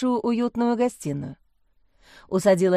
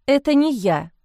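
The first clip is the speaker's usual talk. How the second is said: pouting; 5 semitones higher, 3 dB louder than usual. A narrator's reading. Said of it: "надула губы Лиза".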